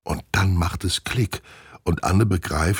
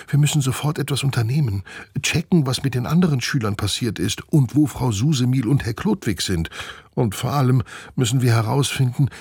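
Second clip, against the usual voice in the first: higher, hurried small-animal voice; relieved, urgent glider squirrel; 5 semitones higher than usual. Acted. Glider squirrel Steffi urges Nina to act quickly. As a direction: rush out the plan, relieved and urgent.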